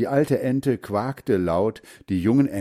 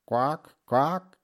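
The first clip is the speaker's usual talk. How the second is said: higher, short quacks; mother duck quacking; 5 semitones higher than usual. A narrator's reading. Mother duck summons her ducklings to food, quacking. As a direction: quack to get the brood's attention. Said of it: "sagte sie".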